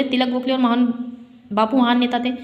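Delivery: तिलक गोखले run together quickly; no comma pauses. Shown as a demonstration. Teacher showing pupils an unclear reading, तिलक गोखले run together. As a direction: rush the list, no break after तिलक. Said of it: "अगर हम इसको बोले".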